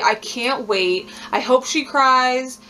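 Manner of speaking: slow gloating. Real, not acted. Relishing rival's coming meltdown.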